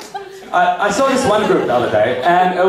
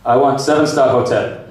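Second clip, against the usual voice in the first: lightly voiced Arab client; Arab accent; 3 semitones lower than usual. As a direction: put on a mild Arab accent. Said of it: "An Arab guy would be like".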